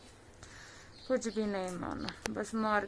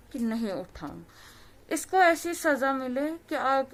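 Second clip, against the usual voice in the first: raised, forceful plea for justice; impassioned demand; 3 semitones higher, 5 dB louder than usual. Real, not acted. Daughter to the reporter, demanding justice: impassioned, raised voice. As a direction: press hard for punishment, voice rising.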